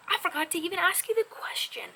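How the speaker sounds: sudden whispered realisation; breathless whispered oops; whispered aside. Real, not acted. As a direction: hush it like a forgotten secret.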